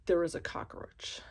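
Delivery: whispered, as if confessing a disaster; hushed dramatic reveal. Retold or imitated. Tenant revealing the emergency to her host, hushed whisper. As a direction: breathe it out like grave news.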